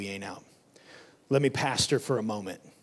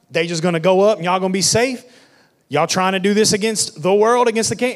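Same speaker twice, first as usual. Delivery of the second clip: higher, scornful challenge, quicker in places; mocking haters; 4 semitones higher, 5 dB louder than usual. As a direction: sneer at the builders like a doubter. Preacher voices mocking haters.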